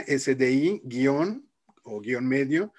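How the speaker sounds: S D I, letra por letra, despacio; spelling it out. Shown as a demonstration. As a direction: deletrea S D I guion medio con calma. (deletreando despacio)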